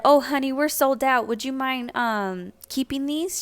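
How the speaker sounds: a hint of a sweet older saleslady offering gifts; sweet vendor lady. Vendor lady offering leftover leggings, light sweet imitation.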